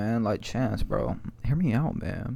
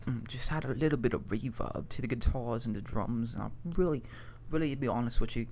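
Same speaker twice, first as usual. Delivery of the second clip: put-on posh British accent; 3 semitones lower, 5 dB quieter than usual. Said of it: "as a posh man".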